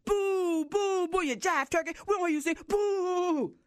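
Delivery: jeering boos. Acted. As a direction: jeer him off the stage. Crowd booing the frog.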